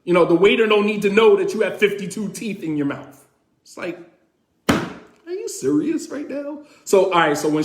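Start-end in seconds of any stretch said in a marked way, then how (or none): 0.0-3.3 wife complaining. Retold or imitated. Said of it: "My wife is like". 4.7-6.6 high, slow, stretched-out incredulity; exasperated disbelief. Retold or imitated. Husband reacting to wife's complaint, slow disbelief.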